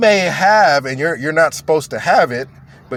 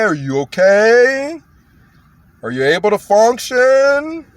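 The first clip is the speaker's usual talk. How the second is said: Stephen Lett; 5 semitones higher than usual. Acted. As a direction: ask as if they can barely follow you. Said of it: "just how he talks to everybody".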